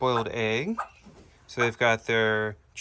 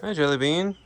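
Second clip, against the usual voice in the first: higher, sing-song coaxing to a bird; pet talk; 7 semitones higher, faster than usual. Real, not acted. Greeting Jelly Bean the parrot in higher sing-song pet talk. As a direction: coo at the little bird.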